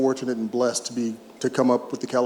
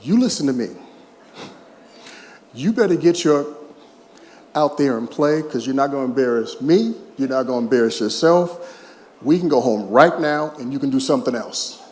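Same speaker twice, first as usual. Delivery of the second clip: louder, stern retold telling-off; wife's scolding; 4 dB louder than usual. Wife scolds her sulking ballplayer husband at the dugout, a loud stern telling-off. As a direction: lay down the law to your slumping husband. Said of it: "she said".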